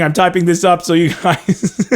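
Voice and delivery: words dissolving into a real laugh; slowing down as the giggles take over; breaking into laughter. Real, not acted. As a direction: start the line, then lose it laughing. Laughing at own stream mishap.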